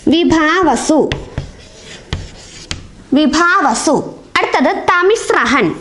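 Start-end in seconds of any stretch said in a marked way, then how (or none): 0.1-4.2 വിഭാവസു said very slowly, syllable by syllable; teacher slowly sounding out വിഭാവസു for pupils; each syllable of വിഭാവസു drawn out slowly; slow clear spelling-out. Shown as a demonstration. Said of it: "മറ്റൊന്ന് വിഭാവസു".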